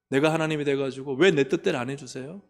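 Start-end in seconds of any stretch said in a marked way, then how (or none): 1.2-2.4 a mildly pushy complaint at God; a hint of a spoiled believer demanding his way; demanding prayer. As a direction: press God with a rising "왜".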